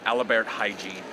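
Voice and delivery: "Alibert hygiene" said as AL-i-bert HY-jeen, British tourists' version of Albert Heijn; mock mispronunciation. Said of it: "as they call it".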